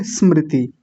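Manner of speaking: स्मृति straight from s into mri; correct स्मृति. Shown as a demonstration. Teacher recapping for students, correct स्मृति. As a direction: say स्मृति without a leading i. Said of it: "तो क्या बोलेंगे?".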